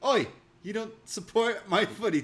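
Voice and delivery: high, loud heckle; hammed-up confrontational shout; mock angry. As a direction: call it out like an angry football fan. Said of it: "he comes out here all angry at him".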